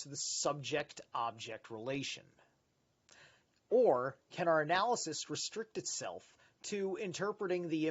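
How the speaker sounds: measured reading of a dense text; reading aloud. Acted. Streamer reading a philosophy book to viewers, measured reading voice. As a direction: read it out like a study passage.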